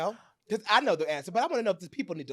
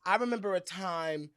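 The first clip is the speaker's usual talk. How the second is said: sincere. Real, not acted. Heartfelt reflection to friend.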